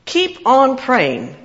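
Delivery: "Keep on praying." drawn out very slowly; slow solemn quote. Shown as a demonstration. Preacher reading the verse to the church, very slow. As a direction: lay each word down slowly. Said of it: "another strange thing".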